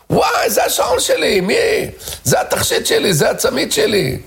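high piercing shriek of shock; shrieking woman. Retold or imitated. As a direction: scream it like she just spotted her stolen watch. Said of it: "פתאום צורחת אחת האנשים". (צרחה גבוהה ומבוהלת)

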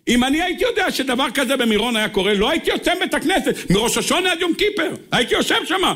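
high-pitched, emphatic hindsight; insistent, high sermon delivery; impassioned preaching. Acted.

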